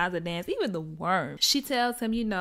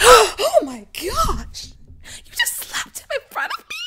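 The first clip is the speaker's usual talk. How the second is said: much higher, hammed-up gasping shock; shocked white lady; 10 dB louder than usual. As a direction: play the scandalized lady, pitch soaring.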